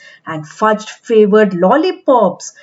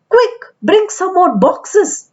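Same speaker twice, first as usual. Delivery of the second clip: mild yell; 7 semitones higher than usual. A narrator's reading. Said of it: "yelled a man".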